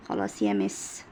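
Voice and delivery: teacher playing the pupil; pupil's answer. Teacher voices pupil's reply.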